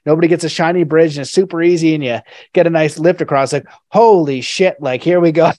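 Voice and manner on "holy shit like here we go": mock awe. Imitating someone crossing the bridge.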